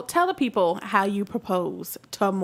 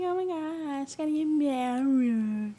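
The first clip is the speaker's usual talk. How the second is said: mock excitement; 5 semitones higher, 3 dB quieter, slower than usual. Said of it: "I was like".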